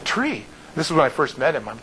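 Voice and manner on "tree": high, softer baffled "Tree?"; retold bewilderment; puzzled echo. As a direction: echo it back as a high, confused question. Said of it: "and I'm like".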